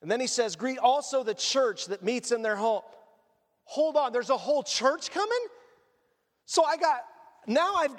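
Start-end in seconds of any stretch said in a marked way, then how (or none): 0.6-2.8 measured, steady reading of the verse; scripture reading. Acted. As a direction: read it out like a lectern reading. Reads scripture aloud.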